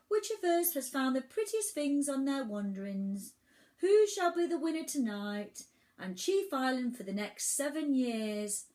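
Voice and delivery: high, projected grand lady island; sad island character. A narrator's reading. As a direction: address the assembly in a high, theatrical voice. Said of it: "she said sadly".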